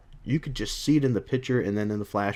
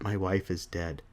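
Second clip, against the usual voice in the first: soft, low, defeated echo; acted hushed realization; subdued repetition; 4 semitones lower, 8 dB quieter than usual. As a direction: drop to a quiet, grieving murmur. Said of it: "And he repeats it".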